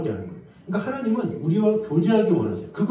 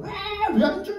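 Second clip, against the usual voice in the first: whining demand. Retold or imitated. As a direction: wail it like a child denied a toy. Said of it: "하나님 앞에 협박하는 거".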